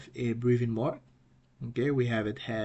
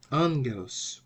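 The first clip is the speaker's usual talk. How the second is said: "Angelos" as AN-ge-los, first syllable leading; "Angelos" with stress up front, then falling; accent on first syllable; 2 semitones higher than usual. Shown as a demonstration. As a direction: lean lightly on AN in "Angelos". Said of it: "So the right pronunciation".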